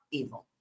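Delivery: evil dropped low and hushed; hushed ominous evil. Real, not acted. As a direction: let evil sink low and quiet. Closing dramatic point on evil.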